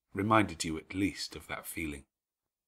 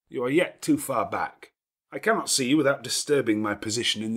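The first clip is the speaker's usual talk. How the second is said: louder, commanding gentleman's voice; a lordly host giving orders at ease; gruff master of the house; 4 semitones higher, 4 dB louder than usual. Acted. Rochester speaks to Jane.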